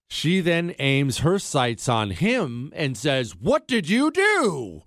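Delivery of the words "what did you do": high, drawn-out mock shriek; hammed-up horrified outcry; retold horrified scream. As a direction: imitate an accusing scream, slowly. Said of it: "turns and screams, horrified".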